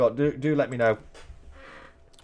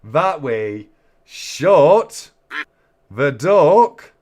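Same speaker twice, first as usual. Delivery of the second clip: dramatic announcement; 9 dB louder, much slower than usual. Acted. Dramatic duck race finale call.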